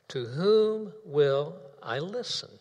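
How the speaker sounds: slow with a questioning rise; slow, rising question. Shown as a demonstration. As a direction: let the end lift, unhurried. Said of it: "The question goes like this".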